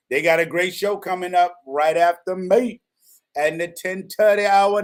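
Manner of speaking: high, hammed-up Jamaican accent; bad Jamaican accent. Radio host plugging the next show, in a bad Jamaican accent. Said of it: "That's a bad Jamaican accent".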